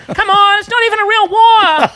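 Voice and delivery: high, loud, scared pleading; mock scared whine. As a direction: whimper it out like a terrified teen soldier. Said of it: "I was like".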